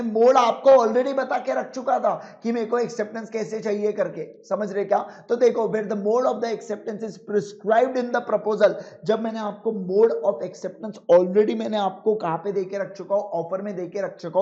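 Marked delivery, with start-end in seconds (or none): 5.6-8.8 reads the rule out word by word, slowly; slow dictation. Shown as a demonstration. Teacher dictating the rule to students, slowly. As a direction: spell out the law slowly for notes.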